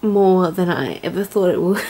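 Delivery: real tears catching at the end; tearful. Real, not acted. Vlogger admitting how challenged she has been, tearful. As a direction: start firm, give way to tears. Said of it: "Why am I crying".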